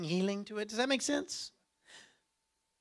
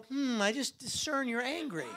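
laughing mock insight; 4 semitones higher, 6 dB quieter than usual.

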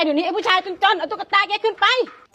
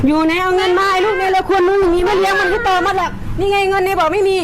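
raised, ranting scold; furious rant; 3 semitones higher than usual. Acted. Mother ranting at her daughter for money, angry. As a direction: berate the ungrateful child.

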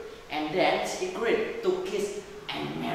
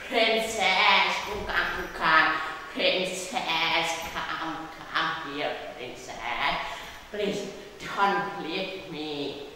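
frog calling out; slower than usual. Acted. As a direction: call after the princess, then plead slowly. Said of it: "shouted the frog".

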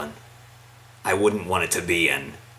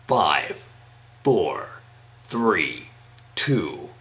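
Halo announcer voice. Pretend. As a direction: call it out like a shooter announcer. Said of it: "doing this thing again".

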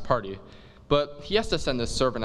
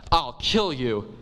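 mock threat; slower than usual. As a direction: growl the threat slowly. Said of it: "Romeo's like".

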